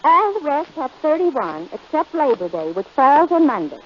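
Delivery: mock-serious poetry reading; reciting a poem. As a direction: proudly declaim a silly rhyme. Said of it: "how do you like my poem".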